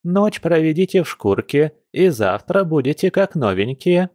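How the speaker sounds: high, lilting granny voice; agreeing old woman. A narrator's reading. Granny advising the stung werewolves, high old-woman voice. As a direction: advise them as a little old lady. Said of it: "поддакнула старушка".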